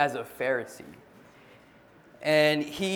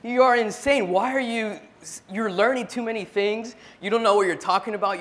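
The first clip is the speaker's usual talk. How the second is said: Festus shouting that Paul is insane, higher and louder; a governor loudly scoffing at a prisoner, higher and louder; 6 semitones higher, 6 dB louder than usual. Retold or imitated. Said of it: "he says with a loud voice".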